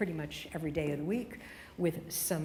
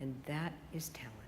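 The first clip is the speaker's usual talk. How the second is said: whisper; 7 dB quieter than usual. Real, not acted. Closing point to broadcasters.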